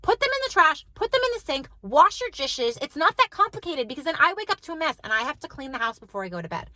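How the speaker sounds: mock-scold the kids in an insistent list; retold heated yelling. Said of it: "So I started yelling".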